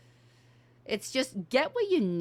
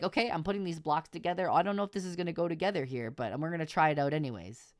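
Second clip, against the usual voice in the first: quick, chatty narration of building; narrating like a kid; faster than usual. Shown as a demonstration. Son narrating his Lego build, quick and chatty. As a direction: talk through each block as you go. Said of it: "It's like".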